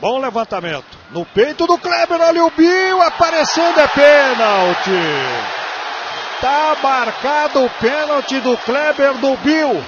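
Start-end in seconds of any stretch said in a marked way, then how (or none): 1.1-9.8 live play-by-play. Acted. Narrator calls the penalty.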